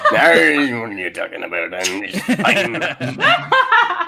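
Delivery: hammed-up drunk Irish accent; slurred, laughing stage-Irish voice; drunken Irishman accent. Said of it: "you sound like a drunken Irishman when you do the accent".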